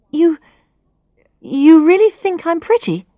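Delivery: rising high in disbelief; surprised question. Acted. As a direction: ask it as if you can't believe it. Narrator stunned by a compliment.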